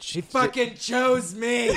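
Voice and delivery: raspy impression. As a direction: rasp it out slowly. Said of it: "he's got one of those raspy voices".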